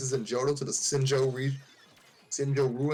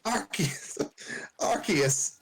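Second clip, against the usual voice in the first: high, eager fangirl gush; excited; 4 semitones higher than usual. Acted. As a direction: gush about it like a fan. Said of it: "Misty excitedly asked".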